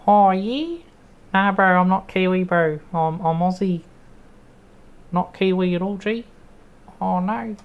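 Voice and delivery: high, loud hammed-up bro banter; mock bro voice. Streamer answers chat's Kiwi guess, mock bro voice. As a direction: play a cheeky bro talking back.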